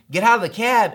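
insist, with a touch of begging. Retold or imitated. Trip leader to pastor in the taxi, insistent plea. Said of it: "kept begging and insisting".

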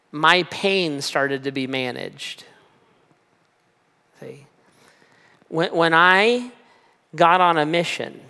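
reflective preaching. Acted. Reflective sermon application.

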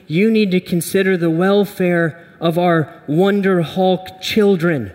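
Wonder Woman voice. Acted. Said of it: "And she says".

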